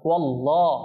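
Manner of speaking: ওয়াল্লাহ with a full "lo", never a thin "la"; heavy L in Allah. Shown as a demonstration. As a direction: round out the L in ওয়াল্লাহ. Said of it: "এটা লা পড়বো না". (ওয়াল্লাহ-তে মোটা ল উচ্চারণ)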